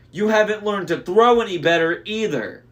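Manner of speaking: loud, high jeering yell; mocking shout. A narrator's reading. Annabeth jeers after the boulder misses. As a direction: shout the taunt after the miss. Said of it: "Then Annabeth shouted".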